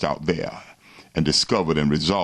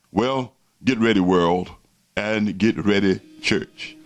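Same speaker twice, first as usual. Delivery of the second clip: religious zealot. Real, not acted. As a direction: warn them like a street preacher. Closing call to repent.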